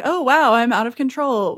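fake-surprised wow; Cyclops quote. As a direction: play up pretend helplessness. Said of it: "he's like".

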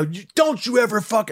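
retold rage. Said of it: "I, I lost it".

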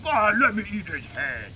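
lightly voiced monster plea; a hint of hungry creature whining; mock creature begging to be fed; Venom. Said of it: "He's going".

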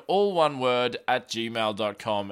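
ordinary talk

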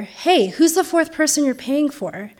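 imitating the bouncer pushing harder. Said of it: "says even louder".

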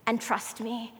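lightly voiced God, hushed and tender; a preacher voicing God softly to the doubter; gentle voice of God. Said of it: "God says".

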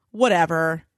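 low, sullen imitation of a brush-off; salty. Husband's text reply to wife, read out saltily. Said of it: "So angry and salty".

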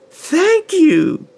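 put-on high, loud delighted child; excited little girl. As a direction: burst out with joy. Girl receives book.

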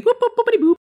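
high beeping robot noises. Pretend. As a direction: chirp it like a little robot. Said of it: "That's my robot noise".

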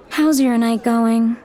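put-on high, slow friendly girl; lightly voiced chatty server; young woman voice.

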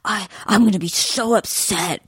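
slow, drawn-out mock upset. Imitating a contestant at the rose ceremony, mock upset. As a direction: draw it out as a lightly imitated sulk. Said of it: "really upset".

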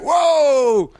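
high, cheery whoop. Retold or imitated. Comedian to a drunk stumbling into him, cheery whoop. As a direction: re-enact a merry exclamation up high. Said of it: "I couldn't have been cheerier about it".

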